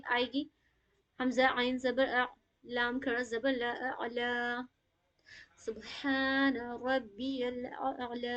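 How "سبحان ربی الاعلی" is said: very slow, hamza and ain both sounded in الاعلی; slow recitation demo. Shown as a demonstration. Teacher models the full phrase for students. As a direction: sound every letter slowly. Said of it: "اوکے، اس طریقے سے".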